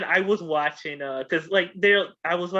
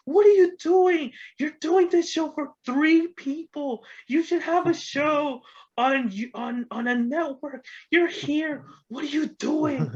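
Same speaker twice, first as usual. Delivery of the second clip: Super Dave scolding; 12 semitones higher than usual. Retold or imitated. Super Dave Osborne berating Norm about his tiny show, high and exasperated. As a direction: bellow it high and slow in disbelief.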